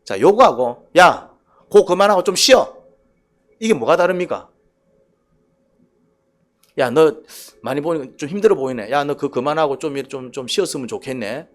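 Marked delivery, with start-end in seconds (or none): 1.0-2.8 blunt, louder order; curt command. Shown as a demonstration. Pastor barking at a tired friend, curt and loud. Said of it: "지 감정대로 얘기하는 것 같죠". 6.8-11.5 caring tone. Shown as a demonstration. Pastor to a tired friend, gently caring. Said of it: "생각해주는 말투 같고".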